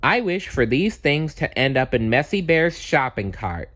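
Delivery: lifted, bright wishing voice. Acted. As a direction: wish it with confidence. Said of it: "Wish Bear said".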